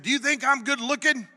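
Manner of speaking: high, loud taunting bark; mocking drill sergeant. Drill sergeant taunts a recruit, loud high mocking bark. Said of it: "he said".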